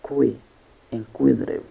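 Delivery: "kui" alone, then inquisitive stressed on "kui"; stress on second syllable. Shown as a demonstration. Teacher showing learners where inquisitive is stressed, stress on "kui". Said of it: "The stress is on the f-, second syllable".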